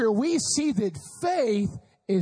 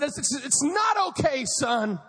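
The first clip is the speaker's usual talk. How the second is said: upset dad. Retold or imitated. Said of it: "He said".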